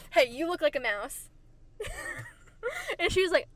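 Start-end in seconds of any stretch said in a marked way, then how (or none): 0.1-1.3 blurted louder, through giggles; perky. Retold or imitated. Child walking up to a girl to compliment her, perky. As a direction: chirp it out between laughs. Retelling own childhood insult, laughing.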